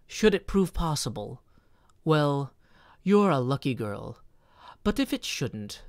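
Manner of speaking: expressive recital of a poem; poem reading. Acted. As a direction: read it like a gift to the baby. Reads the birthday poem aloud.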